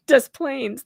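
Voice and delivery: "Des Plaines" with both s sounds, English-style; Illinois Des Plaines. Shown as a demonstration. Admitting the local way is terrible, "Des Plaines" as dess-plainz. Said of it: "but that's how we say it".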